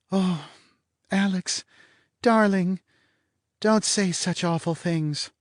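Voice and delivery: woman's pleading voice. Acted. Woman to Alex, high, slow pleading plea. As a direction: play the wronged innocent.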